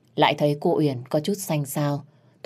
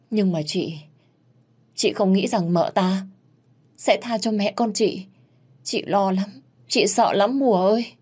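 worried, higher-pitched pleading; frightened older sister; 5 semitones higher than usual. Acted. Chị Hồng fears for mother and child, anxious. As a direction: confide your fear anxiously.

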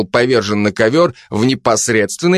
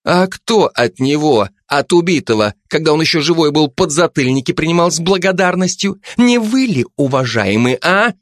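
higher, pushy detective woman; Zhanna's voice; 6 semitones higher than usual. Acted. Жанна давит на Кулебяку, напористо и выше. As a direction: lean on him, mock-polite and suspicious.

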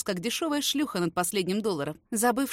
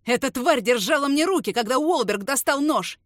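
louder, higher angry shout; young man yelling at Carter to let go; furious yell; 4 semitones higher, 8 dB louder than usual. Acted. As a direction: scream it in his face. Enraged narrator shouting at Carter.

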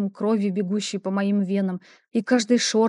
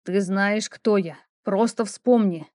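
confident voice; slower than usual. Acted. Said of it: "которая звучала в этом голосе".

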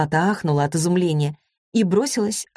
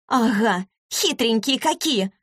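high mock squeal, slowed on хитренькие; girl squeals her scorn, pitched high; 6 semitones higher, slower than usual. A narrator's reading. Girl squeals at the agent, pitched high. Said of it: "взвизгнула девушка".

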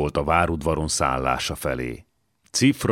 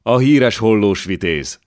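put-on raised, slow German-accented proclamation; drawn-out German-accented exclamation, pitched up; foreign-accented German; 4 semitones higher, 6 dB louder than usual. A narrator's reading. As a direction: announce it loudly with a light German accent. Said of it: "recsent a német idegenes magyar kiejtéssel".

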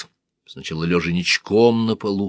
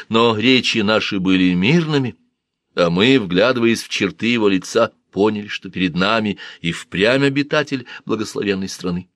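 lightly voiced storyteller man; 3 semitones higher than usual. Senmut narrates Punt voyage.

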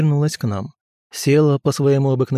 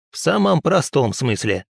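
put-on grumbling old woman; 3 semitones higher than usual. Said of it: "проворчала Мурашиха".

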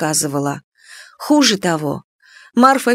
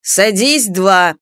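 mildly raised teacher's voice; shouted order; much slower than usual. A narrator's reading. Teacher sends Аннушка back with a bad mark, shouting. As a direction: dismiss the pupil with a restrained shout. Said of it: "крикнув Аннушке".

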